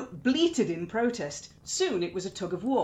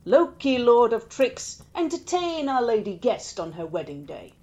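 booming call; 5 dB louder than usual. Acted. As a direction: announce him grandly to the hall. Allfather calling out Loki.

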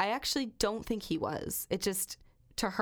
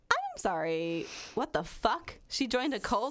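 higher-pitched mock disbelief; incredulous outburst; 5 semitones higher than usual. Reacting to the cult phone call, incredulous outburst. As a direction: act out stunned, indignant disbelief.

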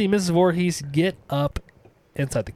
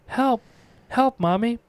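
put-on child calling for help; 8 semitones higher than usual. Boy drowning calls for mother.

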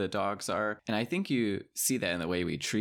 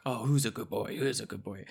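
lightly voiced doggy baby talk; passerby cooing at a dog in mock baby talk; 2 semitones higher than usual. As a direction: coo at a stranger's dog. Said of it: "dog talk and be like".

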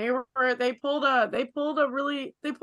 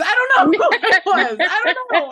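laughing; 5 semitones higher, 7 dB louder than usual. Real, not acted.

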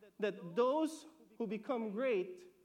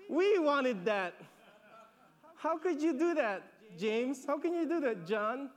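rising indignant protest, louder on James and John; indignant disciples; 3 dB louder than usual. Acted. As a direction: demand how they dared. Ten indignant at the brothers.

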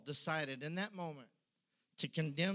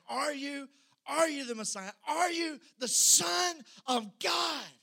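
yelling demand; 10 semitones higher, 6 dB louder than usual. Acted. The accusers yelling at Jesus, shouting. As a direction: shout the question at him. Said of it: "They're screaming at him, yelling".

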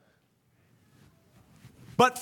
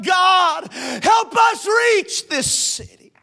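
crying out to God; 4 semitones higher, slower than usual. Retold or imitated. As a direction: cry out to God. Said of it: "I audibly began to cry out".

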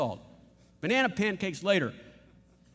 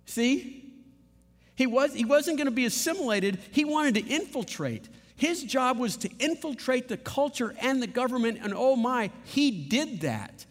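1 fervent preaching; 6 semitones higher than usual. Real, not acted. Preacher rising in fervor.

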